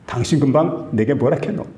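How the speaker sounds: lightly voiced Gyeongsang question; Gyeongsang dialect. Husband asking his wife again in Gyeongsang dialect. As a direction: ask it in a mild Gyeongsang lilt. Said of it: "우리 경상도 말로".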